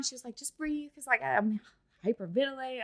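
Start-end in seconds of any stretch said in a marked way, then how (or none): 0.4-0.9 softer, soothing imitation of a nurse; calming nurse. Nurse settling a hyperventilating patient, soft and calming. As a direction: gently coax someone to breathe. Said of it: "she calmed me down".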